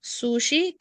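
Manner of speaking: slow question with a rise; deliberate classroom question; slow model question. Shown as a demonstration.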